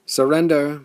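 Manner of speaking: loud, high call to surrender; a booming demand; commanding call. A narrator's reading. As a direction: call across the battlefield. Enemy leader demands surrender.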